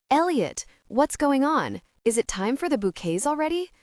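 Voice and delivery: high, rushed near-panic bride; hysterical. Acted. Bride fears a wedding-day problem, voice hysterical and high. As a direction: bride panicking over the bouquets. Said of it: "a hysterical quality to her voice".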